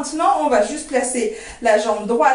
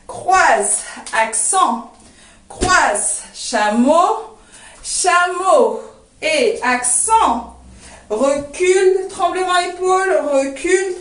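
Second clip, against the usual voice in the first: dance cue calling; 3 semitones higher, slower than usual. Shown as a demonstration. Dance teacher calling the moves to students, rhythmic cueing. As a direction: step names called on the beat, drawn out.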